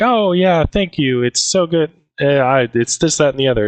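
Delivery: imitating a flustered secretary; flustered thanks. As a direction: brush off the compliment all aflutter. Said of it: "and she's like".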